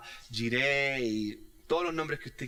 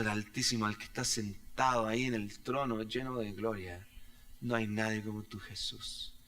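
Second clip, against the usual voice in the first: closing prayer. Acted. (oración pastoral, con finales casi susurrados)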